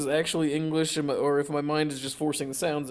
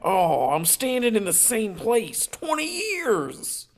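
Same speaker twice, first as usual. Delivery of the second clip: eerie voice; 7 semitones higher, slower than usual. Acted. Acting eerie voice.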